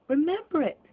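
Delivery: fervent cry. Acted. Scrooge answers the spirit, crying out fervently. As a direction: fling it out with passion. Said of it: "cried Scrooge with fervour".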